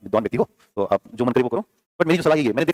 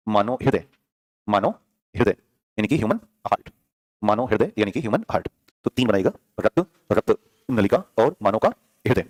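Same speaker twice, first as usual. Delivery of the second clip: dictating; 4 semitones lower than usual. Shown as a demonstration. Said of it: "ऐसे बना दें नीचे".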